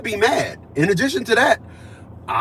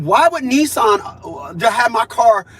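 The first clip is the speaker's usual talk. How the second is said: mock shout; 3 semitones higher, slower than usual. Retold complaint to dealership.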